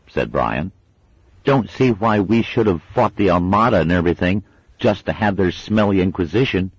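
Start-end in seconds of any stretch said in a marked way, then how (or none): 1.5-6.7 lightly voiced kid, a bit higher; mild indignant schoolboy; grumbling boy. A narrator's reading. Brian complaining on.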